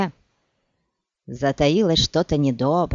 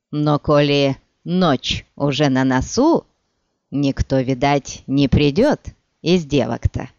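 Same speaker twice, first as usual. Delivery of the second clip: menacing thug; 2 semitones lower than usual. Acted. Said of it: "в его голосе было что-то такое".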